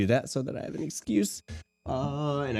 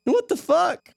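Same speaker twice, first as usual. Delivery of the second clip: laughing retort; much slower than usual. Retold or imitated. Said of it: "I'm like".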